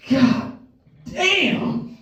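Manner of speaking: high, drawn-out whistle-like call; impressed catcall. Retold or imitated. A little girl catcalling him, high and drawn out. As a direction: call it out admiring someone. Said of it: "I hear".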